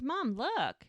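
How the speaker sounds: imitated excited child. Hazel shows her mom the tiara, excited call. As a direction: act out a child showing off to mom. Child calls to mother, acted.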